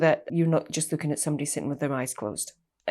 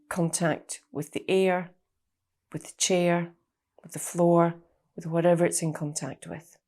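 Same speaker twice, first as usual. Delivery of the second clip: guided meditation. Real, not acted. Therapist guiding listeners to trace their body's outline, guided meditation. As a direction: guide them unhurriedly, leaving space between phrases. Begins leading the body scan.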